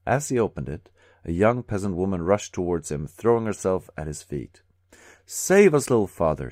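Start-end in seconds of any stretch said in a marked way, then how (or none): 5.2-6.5 high, loud pleading cry; desperate cry. A narrator's reading. Peasant woman at the commissar's feet cries out desperately. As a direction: throw yourself at his feet and beg. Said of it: "she cried".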